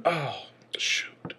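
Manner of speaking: breathy whispered dismay; whispered oh shoot. Retold or imitated. Opponent feigning a misplay to his rival, whispered. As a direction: whisper it as if caught out. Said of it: "and then gone".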